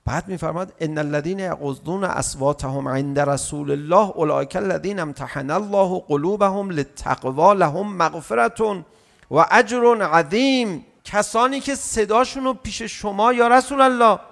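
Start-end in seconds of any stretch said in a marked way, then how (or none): 0.8-10.8 slow chanted verse, fading at the end; Quran recitation. Acted. Preacher reciting the Quran verse to the congregation, chanted.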